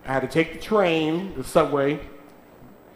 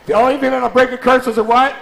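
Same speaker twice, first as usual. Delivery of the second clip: louder, higher call with a laugh; louder call-and-response; 9 semitones higher, 8 dB louder than usual. Shown as a demonstration. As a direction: push them harder to answer, laughing. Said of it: "y'all ain't ready".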